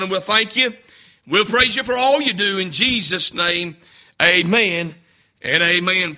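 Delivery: low, earnest spoken prayer. Acted. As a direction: pastor praying over the congregation, low and earnest. Opening prayer before sermon.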